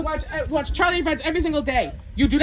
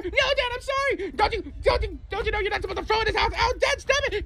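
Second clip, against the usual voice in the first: high mock begging kid; hammed-up child plea; pleading kid; 5 semitones higher, 4 dB quieter than usual. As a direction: beg the dad to stop. Acting kid begging dad.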